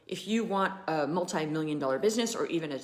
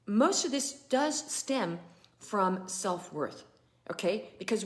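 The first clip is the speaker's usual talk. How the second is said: teary; slower than usual. Real, not acted. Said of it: "sorry, I'm getting all teary-eyed".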